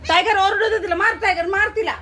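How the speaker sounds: egging on. Real, not acted. Owner urging Tiger to bark at the cat, playful excited cheer. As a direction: hype the dog up, half laughing.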